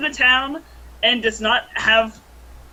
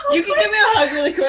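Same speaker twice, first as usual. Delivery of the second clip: high, fast, laughing hello; excited greeting; 10 semitones higher, much faster than usual. Real, not acted. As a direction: gush it out to a friend. Greeting friends over mic.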